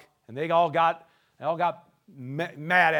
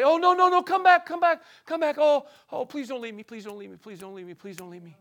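mock pleading Jesus; 6 semitones higher than usual. Preacher pretending Jesus begs the disciples to stay, fading plea. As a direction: beg them to come back, then trail off pleading. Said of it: "he didn't say".

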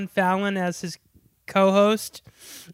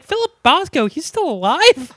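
high, louder mock disbelief; mock studio surprise; 7 semitones higher, 5 dB louder than usual. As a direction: act shocked he's alive. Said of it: "And the studio's like".

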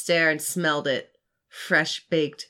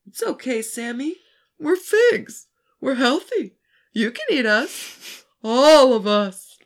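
high, coaxing talking Fig Newtons, swelling louder; tempting cookie voice; 8 semitones higher, 8 dB louder than usual. Acted. The Fig Newtons tempting Sammy, high and coaxing. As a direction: sweetly lure him to eat the whole box.

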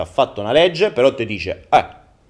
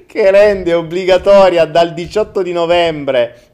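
town crier; 4 semitones higher, 5 dB louder than usual. Acted. Proclamation resumed louder.

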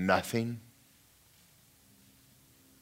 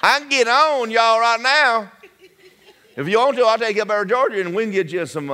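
laughing; 10 semitones higher, 5 dB louder than usual. Real, not acted. Laughing through the country-boy bit.

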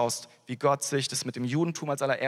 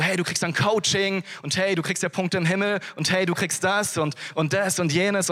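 higher, eager, mocking a coach's promises; mock sales pitch; 5 semitones higher than usual. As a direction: sell it like a slick motivator, tongue in cheek. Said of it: "Man sagt so". (spöttisch übertriebener Werbeton)

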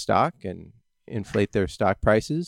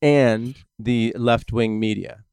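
sarcastic; 5 dB louder than usual. Pretend. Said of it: "I wasn't being sarcastic".

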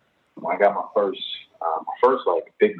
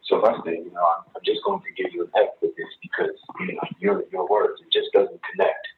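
a rough attempt at a French-accented teacher; bad French accent. Teacher failing her student, in a rough French accent. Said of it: "sorry if that was a horrible French accent".

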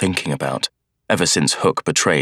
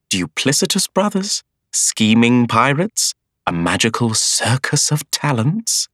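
put-on gushing old bookseller; 6 semitones higher than usual. A narrator's reading. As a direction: play an excitable bookseller bursting with news. Bookseller voiced.

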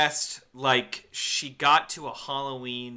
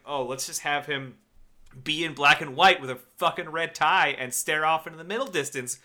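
mock excited pitch; 3 dB louder than usual. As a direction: ham up the director's idea, climbing to a shout. Mocking director's idea.

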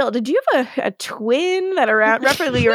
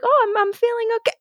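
retold patient; 12 semitones higher, much faster than usual. Liz retold answering after treatment.

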